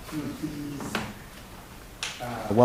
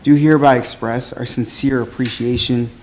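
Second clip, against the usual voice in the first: teacher voice. Real, not acted. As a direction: project every word like a teacher. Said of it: "I'll use my teacher voice so everybody hears me enunciate".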